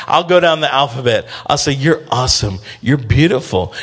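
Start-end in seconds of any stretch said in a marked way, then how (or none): 1.7-3.7 put-on lower, gentle baby-soothing praise; tender affirmation. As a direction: speak gently into a baby's ear. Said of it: "I just begin talking to them".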